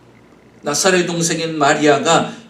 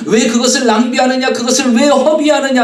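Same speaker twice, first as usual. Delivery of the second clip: retold angry reproach, pitched up; mock-indignant questioning; indignant rebuke; 5 semitones higher than usual. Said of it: "분노하고 화를 내면서".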